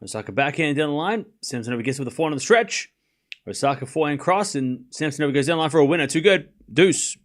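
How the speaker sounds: quick, running tennis commentary; live play-by-play. Acted. Calling the match point by point for chat, quick play-by-play. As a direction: call each shot fast as it happens.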